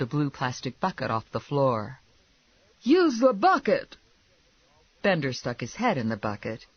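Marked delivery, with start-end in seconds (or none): 2.8-4.0 high, loud urgent command; yelling wife. Acted. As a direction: yell before it is too late. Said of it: "his wife yelled".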